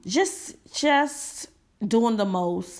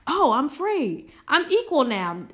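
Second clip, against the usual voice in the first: higher, slow mock-sarcastic relief; mock naive relief; 6 semitones higher than usual. Mocking freed people thinking all is fixed, slow sarcastic relief. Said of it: "all of a sudden".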